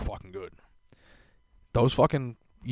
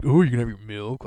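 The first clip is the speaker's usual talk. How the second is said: mock excited; 6 dB louder, faster than usual. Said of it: "all excited and giddy".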